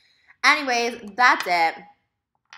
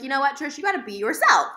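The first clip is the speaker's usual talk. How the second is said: self pep talk; 5 semitones higher, 7 dB louder than usual. Retold or imitated.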